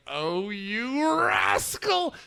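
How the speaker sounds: very slow, high, mock-fond oh you rascal; fond scolding. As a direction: tease him like a cartoon grandma. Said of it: "and you're like".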